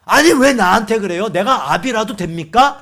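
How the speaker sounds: acted protest, loud at the start; talking back. Moses refusing to be the people's father, talking back. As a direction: throw the blame back at God. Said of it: "라고 대드는 거예요".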